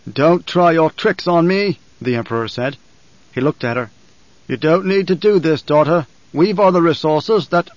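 indignant emperor. Acted.

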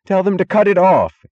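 high, loud panicked scream. A narrator's reading. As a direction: scream the order in alarm. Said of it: "screamed Wesley Mooch".

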